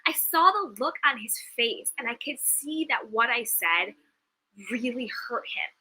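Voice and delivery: real tears creeping in, voice catching; fighting back tears while telling it; choked up, telling a painful memory; getting teary. Real, not acted. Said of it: "I'm getting teary".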